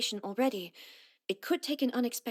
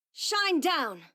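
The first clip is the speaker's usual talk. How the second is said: battle cry; 7 semitones higher than usual. Acted.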